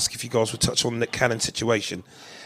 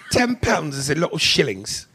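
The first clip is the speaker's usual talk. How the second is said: higher-pitched mock British accent; 5 semitones higher than usual. Shown as a demonstration. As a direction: put on a playful British accent. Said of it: "in a British accent".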